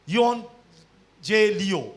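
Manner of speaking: teacher sounding out the Greek word یون جے لیو for the class; Greek pronunciation. Shown as a demonstration. Pastor teaching the congregation the Greek word, sounding out "یون جے لیو". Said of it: "Greek میں جو مجھے اس کا تلفظ پتہ ہے وہ ہے".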